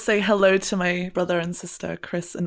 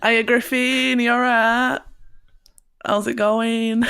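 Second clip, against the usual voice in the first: louder, higher broad northern English holler; enthusiastic northern accent; 4 semitones higher, 5 dB louder than usual. Shown as a demonstration. Hailing someone back home, loud enthusiastic northern accent. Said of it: "enthusiastic northern accent".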